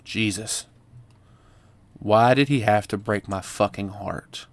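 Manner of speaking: lightly voiced heartbroken teen; bitter teen monologue. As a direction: read it bitter and hurt.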